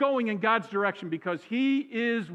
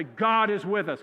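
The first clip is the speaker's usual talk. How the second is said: louder, drawn-out preacher delivery; 4 dB louder, slower than usual. Shown as a demonstration. Pastor showing congregation how to say it, preacher voice. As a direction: say it slow and strong like a preacher. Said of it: "say it in your best preacher voice".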